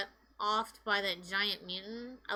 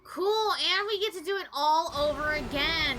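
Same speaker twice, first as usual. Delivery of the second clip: sarcastic. Real, not acted. Mocking repetitive boss fights.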